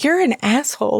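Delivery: imitated Brooklyn mom accent; mock-indignant New York mom; Fran Drescher. Mom confronting her daughter in her room, mock-indignant Brooklyn accent. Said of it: "talks like Fran Dresser".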